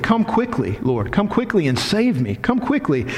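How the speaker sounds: high, urgent plea; urgent prayer. Acted. David urging the Lord to come quickly. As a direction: beg God to hurry.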